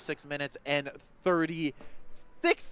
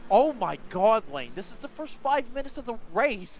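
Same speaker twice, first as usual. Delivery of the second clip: excited; 5 semitones higher than usual. Real, not acted. Wild battles, commentator overwhelmed.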